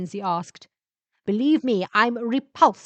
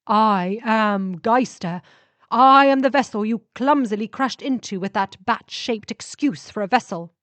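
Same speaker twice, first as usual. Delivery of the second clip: ship spirit voice; 6 dB louder than usual. Acted. Ship spirit scolds the crashed vampire, scornful. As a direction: announce yourself with scorn for their ship. The ship's voice.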